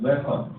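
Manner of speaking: "Records" stressed on the first syllable, REK-ord; noun pronunciation. Shown as a demonstration. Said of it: "The noun".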